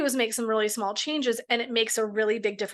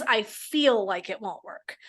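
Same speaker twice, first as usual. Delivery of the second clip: slow demo phrase; slower than usual. Shown as a demonstration. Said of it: "what is true for all of us".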